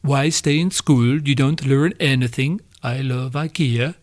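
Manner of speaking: lightly voiced mock of a preachy Swedish girl; mocking Greta. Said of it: "who, as we all know, did say".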